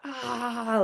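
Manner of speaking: high, held-back imitation of a cheering crowd; mock crowd yell. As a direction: imitate a distant battle cheer without full volume. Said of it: "everyone is cheering and yelling".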